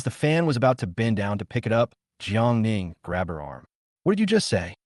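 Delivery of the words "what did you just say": sharp, high shocked question. A narrator's reading. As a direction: blurt it out in disbelief. Grabs fan's arm, shocked.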